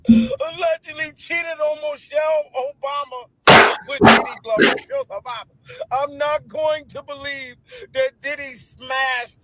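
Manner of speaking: high, loud fake sobbing outrage; mock crying. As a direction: wail in hammed-up disbelief. Hysterical fake distress.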